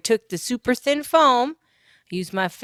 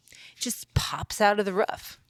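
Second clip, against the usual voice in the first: soft slow whisper, as if sharing a secret; 4 dB quieter than usual. Real, not acted. Vlogger confiding to viewers about the roof window, whispered. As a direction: breathe it out under the breath.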